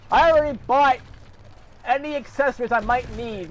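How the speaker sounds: high, heated comeback at the company; real indignant shouting back; angry retort. Real, not acted.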